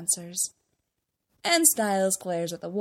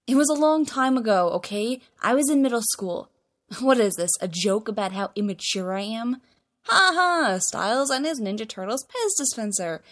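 defensive outburst; 3 semitones higher, 4 dB louder than usual. Acted. Stiles defensive outburst at Derek.

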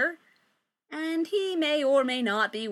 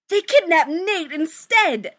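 dramatic reveal; 7 semitones higher, 10 dB louder, slower than usual. Shown as a demonstration. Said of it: "It's getting d".

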